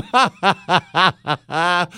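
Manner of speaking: long run of real cackling laughter; gleeful laugh. Real, not acted. Dad who just sent the taunting video, gleeful laugh. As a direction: laugh heartily at your own mischief. Amused by teasing his sons.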